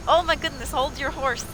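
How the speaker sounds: high-pitched, flustered exclamations; playful panic, voice jumping up; flustered alarm. Pretend. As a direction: react as the danger closes in. Flustered during in-game holdup.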